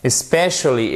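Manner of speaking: "Especially" with the stress on "spe"; careful English "Especially", stressed on "spe"; correct tonic stress. Shown as a demonstration. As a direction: hit the second syllable: es-PE-cially. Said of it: "on regarde notre accent tonique".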